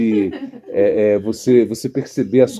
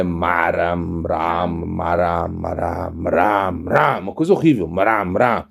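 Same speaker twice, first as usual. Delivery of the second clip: dying man's cry; 6 semitones lower, 3 dB quieter, much slower than usual. Retold or imitated. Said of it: "e dizia".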